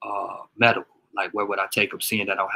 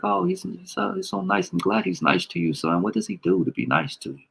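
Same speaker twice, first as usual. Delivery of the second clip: overly cheerful dad; 9 semitones higher than usual. Retold or imitated. Dad's cheerful reply to son.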